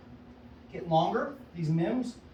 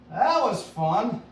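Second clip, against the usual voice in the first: delighted; 4 semitones higher, 7 dB louder, much slower than usual. Real, not acted. Delighted by a big slinger.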